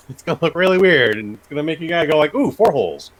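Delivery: lightly voiced old gangster pitchman; forties gangster. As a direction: riff as a playful forties gangster. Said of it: "sounded like a nineteen forties gangster".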